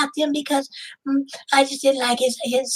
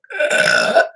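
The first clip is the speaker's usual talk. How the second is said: loud burp. Real, not acted. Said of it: "I burped".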